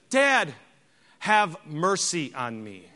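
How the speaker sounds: lightly acted child begging a father; mock plea for mercy, drawn out; imitated pleading son. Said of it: "You know what he said?".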